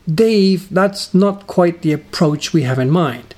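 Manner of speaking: a hint of a director reining someone in; lightly voiced director. Director correcting presenter after a take, lightly acted.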